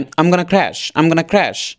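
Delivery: "I'm gonna crash" in one quick run; quick connected speech. Shown as a demonstration. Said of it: "দ্রুত বলবে". (দ্রুত একটানে I'm gonna crash)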